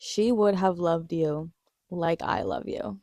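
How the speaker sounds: slow, tender, lightly voiced line; tender quote. Fan quoting the show's love line, slow and tender. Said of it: "the way he says it, impeccable line delivery".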